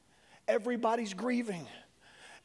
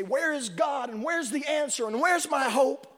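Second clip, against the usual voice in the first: desperate cry; 4 semitones higher, 3 dB louder than usual. Acted. Frightened person crying out.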